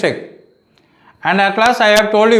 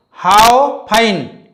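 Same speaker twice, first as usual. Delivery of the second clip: how fine with how leaned on; teacher modelling how fine; stress on how. Shown as a demonstration. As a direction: hit how and let fine fall. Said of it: "How can you convert?".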